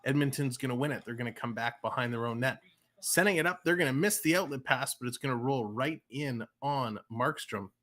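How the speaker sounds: hockey announcer tracking the puck; live play-by-play. Acted. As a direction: call the play live as it unfolds.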